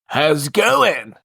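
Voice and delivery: slow surfer-dude drawl; lazy California dude greeting; Pauly Shore voice. Acted. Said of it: "is that your best Pauly Shore impression".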